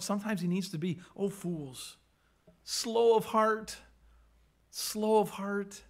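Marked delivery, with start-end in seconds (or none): 1.2-5.8 very slow, weighted reproach; blunt rebuke. Acted. Jesus bluntly rebukes the slow disciples, very slow. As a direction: drag out every word, bluntly. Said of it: "Jesus is just very blunt".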